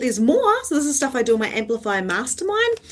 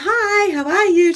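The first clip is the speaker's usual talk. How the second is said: a lightly higher cheery hello; higher upbeat greeting to everyone passing; trying on Jen's greeting; 10 semitones higher, 6 dB louder than usual. Retold or imitated. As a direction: borrow the friend's chirpy greeting. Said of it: "So now I'm like, "I'm gonna try on a bit of Jen".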